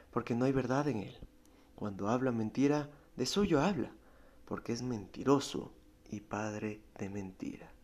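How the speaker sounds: solemn reading of a Bible verse; scripture reading. Acted. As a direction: read the verse out with weight. Reads scripture aloud. (lectura solemne de la Biblia)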